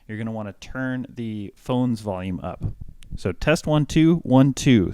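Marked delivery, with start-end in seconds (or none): 3.2-4.9 mic check. Shown as a demonstration. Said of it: "So I'm hitting right about that".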